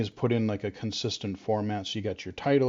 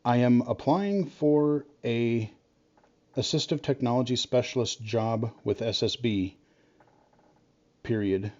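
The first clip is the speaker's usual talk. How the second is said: dictating. Real, not acted. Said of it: "I'm hoping it'll let me dictate this".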